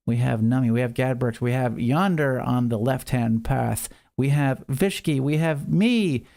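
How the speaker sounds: lively marble race play-by-play; excited race caller, a touch hammed-up; race announcer. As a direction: call the race like a sports announcer. Live marble race commentary.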